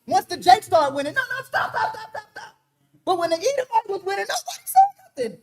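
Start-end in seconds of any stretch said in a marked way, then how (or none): 1.1-2.5 mock pleading. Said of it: "then it's like".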